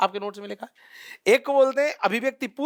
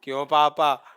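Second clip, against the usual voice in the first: low, laughing replay of the daughter's line; laughing mock; 9 semitones lower, slower than usual. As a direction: giggle through it, low and amused.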